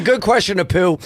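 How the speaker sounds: a hint of an Indian accent. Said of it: "She started Indian accent".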